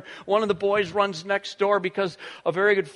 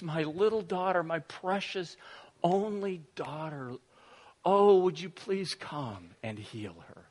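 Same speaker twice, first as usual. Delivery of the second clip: pleading father; 5 dB quieter than usual. Retold or imitated. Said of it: "and he says".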